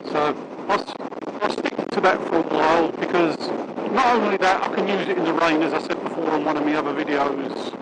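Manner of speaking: muffled inside a closed helmet; talking behind a shut visor. Real, not acted. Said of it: "now I've just clicked me, um, visor down".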